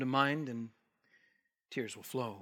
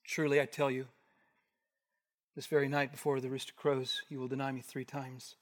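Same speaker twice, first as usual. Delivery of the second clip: solemn; 3 semitones lower, 6 dB quieter than usual. Shown as a demonstration. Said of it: "and that's solemn".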